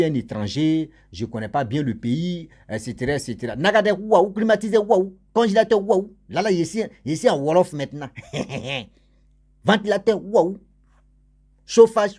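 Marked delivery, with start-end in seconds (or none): 3.5-6.1 high, loud wowed exclamations; mock amazement, pitched up; amazed waouh. Imitating amazed visitor. 9.6-10.6 high, loud wowed exclamations; mock amazement, pitched up; amazed waouh. Listing luxuries with wows. 11.7-12.2 high and loud, bursting with awe; mock wonder, much louder; loud amazed cry. Wowed shout of item.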